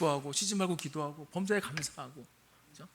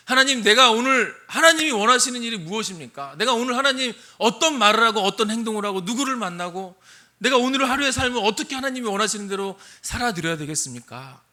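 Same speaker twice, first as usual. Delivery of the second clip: earnest prayer; 4 semitones higher, 7 dB louder than usual. Acted. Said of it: "우리가 말씀과 기도로".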